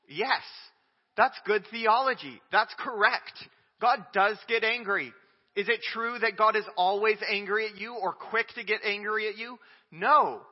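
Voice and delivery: forceful yes and no; emphatic preaching. Real, not acted. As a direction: declare it from the pulpit. Preacher answering his own questions.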